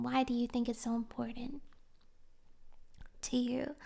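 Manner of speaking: soft unvoiced whisper; hushed probing question; gentle whisper. Real, not acted. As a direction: ask it softly like a confidant.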